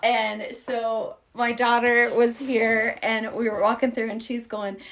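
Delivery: normal talking voice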